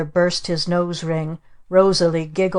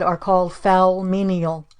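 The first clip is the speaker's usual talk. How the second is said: witch voice. Acted. Witch aunt lecturing.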